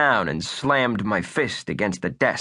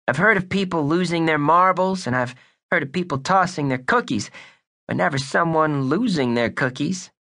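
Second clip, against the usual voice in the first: put-on hard-boiled kid sleuth, higher voice; wisecracking boy detective voice; tough kid detective; 6 semitones higher than usual. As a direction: play it like a pint-sized noir detective.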